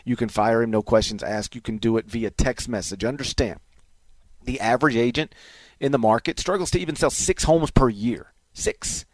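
upbeat radio ad read. Acted. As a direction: sell it like a live radio spot. Host reads realtor ad.

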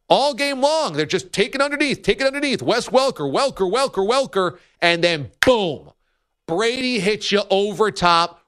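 excited play-by-play. Acted. Acted play-by-play of a game.

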